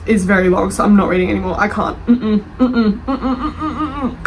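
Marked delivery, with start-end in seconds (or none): 2.1-4.2 giggling higher hums of refusal; laughing mm-mm. Real, not acted. Vlogger laughs off reading the review, giggling refusal. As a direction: laugh through the no-no-no.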